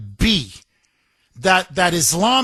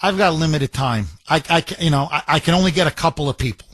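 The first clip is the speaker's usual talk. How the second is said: imagined official; 2 semitones lower, faster than usual. Pretend. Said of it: "and he says".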